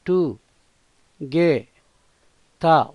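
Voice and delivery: టుగెదర్ split into టు, గే, త, with an aspirated త; syllable by syllable. Shown as a demonstration. Teacher drilling the syllables of together for learners, stressing త. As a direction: break టుగెదర్ into syllables, pressing the త. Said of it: "ఒత్తు త".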